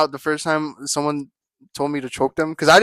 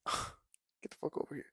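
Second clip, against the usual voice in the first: slow breathy whispered come-on; mock whisper; 19 dB quieter than usual. Guy acting out pulling a girl close, slow whisper. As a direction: whisper it slowly like a growled invite.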